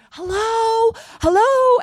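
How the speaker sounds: high, loud hello into the phone; friend calling out. Retold or imitated. Friend shouting into FaceTime, high, loud calls. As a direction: call out to a caller who won't answer. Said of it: "And she's like".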